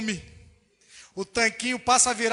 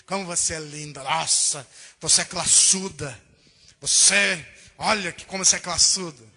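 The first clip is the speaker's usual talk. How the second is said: churchgoers flattering the pastor's wife, gushing in a lower voice; gushing flatterer; 8 semitones lower than usual. Retold or imitated. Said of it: "As pessoas chegam pra pastor e falam assim".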